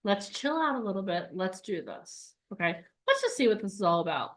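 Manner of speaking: the logical monkey calming the group, soft and measured. Retold or imitated. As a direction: talk the excited monkey down gently. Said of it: "this guy is like".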